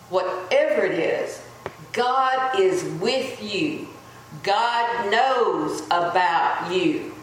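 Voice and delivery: slow, deliberate preaching, each line weighed; slow sermon litany. Acted. Preacher assuring the congregation God is near, slow and solemn. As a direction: lay each promise down slowly.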